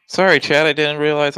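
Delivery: breathy whisper to chat; whispered apology. Real, not acted. Apologising to chat after silence.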